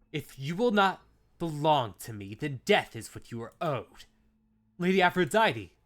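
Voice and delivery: loud, high, anguished declaration; desperate dramatic cry. Acted. Dying lover's desperate outburst.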